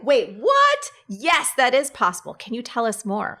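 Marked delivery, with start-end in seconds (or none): 0.0-2.3 surprised. Retold or imitated. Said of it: "I was just like".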